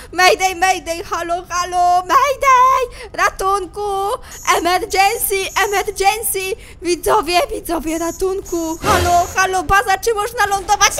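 loud, urgent mayday calling; distress call. Pretend. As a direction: call out for rescue over the radio. Calls base for emergency help.

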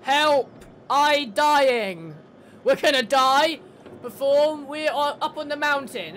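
hammed-up loud call for help; mock cry for help. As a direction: shout into the radio as if stranded and dying. Mock radio plea for rescue.

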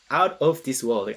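"Out of this world" said slowly, each word spaced out; slow, careful English. Shown as a demonstration. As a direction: spell out "Out of this world" slowly for learners. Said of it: "Out of this worldになります".

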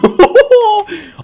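shrill delighted laugh; high burst of laughter. Real, not acted. Gamer laughs after shredding a tank, high and loud.

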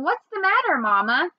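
high anxious plea; worried child. Acted. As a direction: ask with rising worry. Worried child asks mother.

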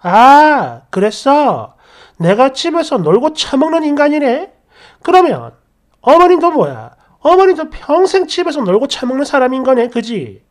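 mocking, sing-song taunt; sarcastic jab. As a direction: needle him with fake agreement. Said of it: "저도 똑같이 막말했습니다". (비꼬듯이 빈정대며)

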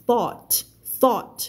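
"thought" said alone with an open "aw" vowel; sound contrast demo. Shown as a demonstration. Teacher contrasting two words, "thought" with the "awt" sound. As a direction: say "thought" crisply as "thawt". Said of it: "เสียงคนละเสียงเลยนะ เสียงออดกับเสียงอู้".

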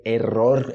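"error" with rolled Rs; drawn-out Spanish "error"; Spanish-style R. Shown as a demonstration. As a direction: trill the R in "error" and end on R. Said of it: "pra quem tá aprendendo espanhol".

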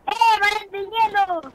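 high, loud game call. Real, not acted. Boy calling for an ice wall, high shout. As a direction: shout it across to your teammate.

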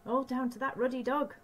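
lightly voiced exasperated mother; a touch of a cross working-class mum; Ma's voice. Ma's voice in story.

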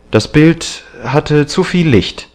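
high-pitched stated excuse; defensive excuse. A narrator's reading. Young man excusing the hidden picture to the painter, defensive. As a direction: offer it as a firm explanation.

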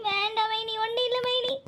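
soft, weepy refusal; acted hushed, tearful denial. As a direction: decline help in a small crying voice. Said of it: "இப்படி அர்த்தமே இல்லாம அழுதா".

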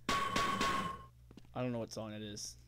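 very high, slow squeaky put-on voice; silly voice. Gamer mocks the music in a silly voice. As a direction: squeak it out goofily. Odd voice.

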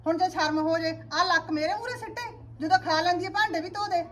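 angry rant. Acted. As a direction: vent it loud and high, fed up. Mother venting about daughter-in-law.

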